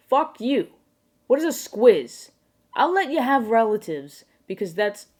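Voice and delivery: high, loud comic outrage; mock rage. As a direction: explode in hammed-up indignation at the slang. Mock rage at Australian slang.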